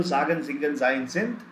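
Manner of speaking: "sagen, singen, sein, sind" with z onsets. Shown as a demonstration. Teacher lists vowel examples in recap, each with initial z. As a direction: list "sagen" as ZAH-gen and the rest likewise. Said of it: "second is z".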